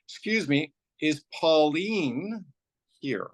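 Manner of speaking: retold waiting-room call, questioning lilt; calling out a name. Lady calls out in waiting room.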